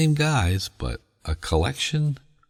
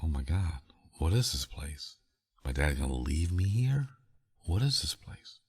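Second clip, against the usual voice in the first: put-on softer, hushed, frightened little boy; scared kid; 6 dB quieter than usual. Boy panicking about the strange building, hushed and softer. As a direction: hush it like a nervous ten-year-old.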